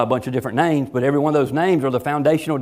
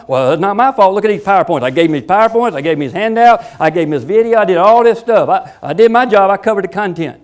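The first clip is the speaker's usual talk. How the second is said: higher, louder, hammed-up excuse-making instructor; defensive teacher; 4 semitones higher, 4 dB louder than usual. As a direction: whine that you did your part. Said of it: "If you go back to the old paradigm".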